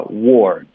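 "word" slow and full, never weakened; stressed full syllable. Shown as a demonstration. Teacher explains the stressed syllable, slow unreduced "word". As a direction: hold "word" long as the stressed half of toward. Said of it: "它不能弱读".

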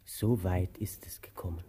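soft unvoiced bitter whisper; resigned whisper. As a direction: breathe the words out in dismay.

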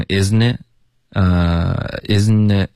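"isn't it" squashed to "izne", a syllable lost; dropped syllable. Retold or imitated. Teacher imitating the student's slip, "isn't it" missing a syllable. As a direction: swallow part of "isn't it". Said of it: "丢了一个音节".

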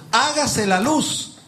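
proclamación lenta y aguda de mandato divino; decrétalo despacio, con el tono bien arriba; voz de Dios. Acted. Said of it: "al Dios que dijo". (proclamando solemnemente como Dios creador)

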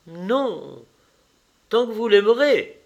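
high, forceful warning; menacing answer. A narrator's reading. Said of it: "fut sa menaçante réponse". (réponse menaçante et appuyée)

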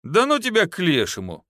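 huffy brush-off; husband taking offence at his wife; offended. A narrator's reading. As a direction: wave her off, hurt. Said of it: "обиделся Тимофей".

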